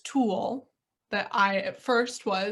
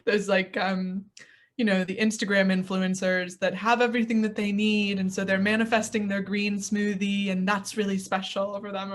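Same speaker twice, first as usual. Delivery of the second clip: snooty dismissal; 3 dB louder than usual. Retold or imitated. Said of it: "stuck my nose up at and was like".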